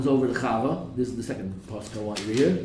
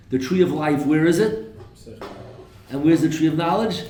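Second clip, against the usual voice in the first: emphatic questioning; 3 semitones higher, 5 dB louder than usual. Real, not acted. Teacher pressing the class.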